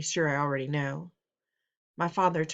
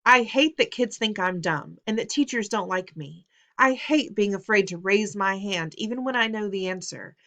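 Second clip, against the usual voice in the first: anguished rant; 2 semitones higher, 5 dB louder than usual. Acted. Son's emotional outburst continues.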